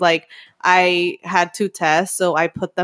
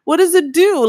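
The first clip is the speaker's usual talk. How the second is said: confused; 7 semitones higher than usual. Retold or imitated. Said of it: "confused about the test".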